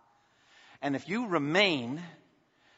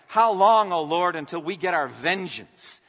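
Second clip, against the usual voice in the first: crying out; 2 semitones higher, 6 dB louder than usual. Retold or imitated. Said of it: "crying out".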